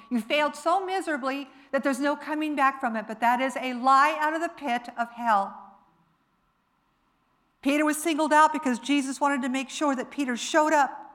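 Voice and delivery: impassioned preaching. Real, not acted.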